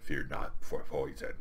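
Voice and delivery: low, slow, formal villain; hammed-up, measured comic-book tyrant; Doctor Doom's voice. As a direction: intone it like a stately overlord. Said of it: "they're both talking like that".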